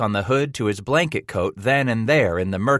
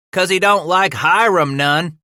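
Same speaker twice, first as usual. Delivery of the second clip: gushing with a giggle; 10 semitones higher, 7 dB louder than usual. A narrator's reading. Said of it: "the second man gushed with a wild giggle".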